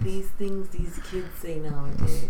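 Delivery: slow grumbling whisper; mocking whisper. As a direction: whisper it like a fed-up elder.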